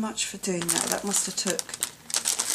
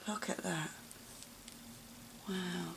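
whispered softly in wonder; awed whisper; 12 dB quieter than usual. Real, not acted. Admiring a friend's crochet gift, awed whisper. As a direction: hush it like you can't believe it.

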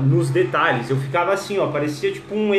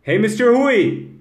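high, loud, drawn-out hello; hearty greeting; 5 semitones higher, 5 dB louder, slower than usual. Real, not acted. Host hails mister Rui on the live, hearty greeting. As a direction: call out to a newcomer.

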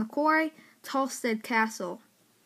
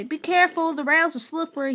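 louder warning; 5 semitones higher, 4 dB louder than usual. Acted. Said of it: "Ben stormed away".

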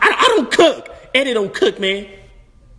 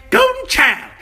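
excited; 12 semitones higher, slower than usual. Acted. Excited title callback.

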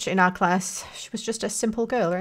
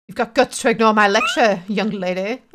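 stern teacher; 6 dB louder than usual. Acted.

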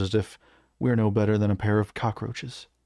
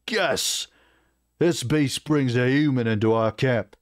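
pitched-up indignant burst, then seething; outraged orc; 3 semitones higher than usual. Acted. War chief objecting to a human in camp, outraged. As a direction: throw the first word back in disgust.

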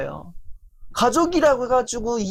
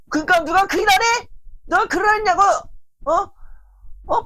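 angry retort; 10 semitones higher than usual. Retold or imitated. Spouse shouting back in a household quarrel, angry retort. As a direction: fire the questions back in anger.

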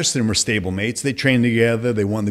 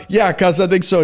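put-on sheepish young self; 8 semitones higher, 4 dB louder than usual. Meek reply to Cus.

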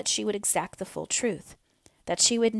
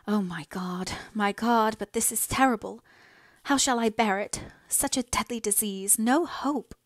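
higher, strained voice of a daughter breaking down; grieving lament; 3 semitones higher than usual. Acted. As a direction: let the despair rise in pitch, then sink away at the end. Margaret alone, grieving her mother.

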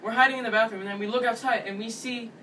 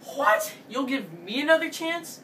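whispered "What?" then higher disbelief; can't believe what he's hearing; mock stunned retort; incredulous; 4 semitones higher than usual. Disbelief at her offer.

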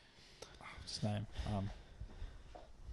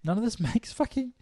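higher, breaking into a laugh midway; 7 semitones higher than usual. Real, not acted. Friend repeats the complaint, laughing in disbelief.

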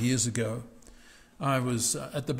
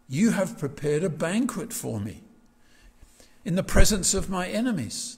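triumphant; 4 semitones higher, 5 dB louder than usual. Acted. Preacher reads triumphant psalm line.

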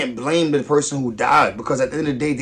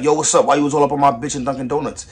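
imitating confrontational dude; 5 dB louder than usual. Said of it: "a dude run up on you like".

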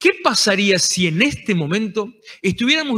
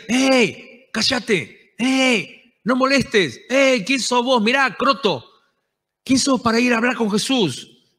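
mock crowd scolding; 5 semitones higher, slower than usual. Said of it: "Le decían".

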